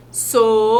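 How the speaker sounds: "Sonolenta" spaced into so-no-len-ta; syllable by syllable. Shown as a demonstration. Teacher counting the syllables of "Sonolenta" for kids, spaced out. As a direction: open the mouth once per syllable of "Sonolenta". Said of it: "Vamos fazer de outra forma, ó".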